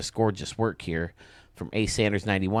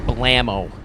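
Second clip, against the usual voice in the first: loud stamp call; 2 semitones higher, 7 dB louder than usual. Real, not acted. Stamping the stadium.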